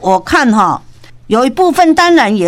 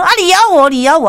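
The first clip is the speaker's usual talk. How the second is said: 1 taunting dare; 7 semitones higher, faster than usual. Retold or imitated. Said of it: "甲你讲".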